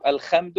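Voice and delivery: الخمد with a scraped kh replacing ḥ; haa as khaa. Shown as a demonstration. Teacher imitating non-Arabs' mistake, الخمد with kh. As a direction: turn the ḥ into kh in الخمد. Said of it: "يبدلها خاء".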